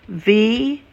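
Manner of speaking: Vichunecha drawn out slowly, syllable by syllable; teacher slowing Vichunecha down for learners; slowly for repeating. Shown as a demonstration. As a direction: say Vichunecha slowly so the class can copy. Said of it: "I will say it slowly".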